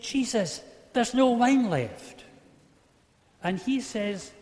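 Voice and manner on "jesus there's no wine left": higher, louder, slow indignant complaint; a mother annoyed, hitting NO hard; mock angry. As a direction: scold him, slow and emphatic. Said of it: "Or is she perhaps angry?".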